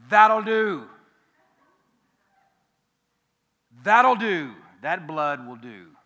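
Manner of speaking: loud, emphatic Scottish proclamation; hammed-up Scottish voice of God; Scottish accent. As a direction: declare it in a booming put-on Scottish accent. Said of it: "gonna speak with a Scottish accent".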